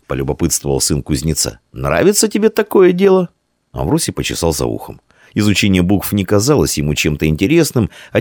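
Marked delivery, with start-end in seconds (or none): 1.7-3.3 put-on high, bright boy asking; child voice. A narrator's reading. Blacksmith's son asks his friend, high boyish voice. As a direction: lift the voice up for a curious boy.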